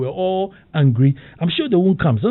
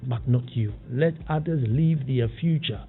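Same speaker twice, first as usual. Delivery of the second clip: motivational reading. Acted. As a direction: lay it out like a sermon. Host reads motivational quote.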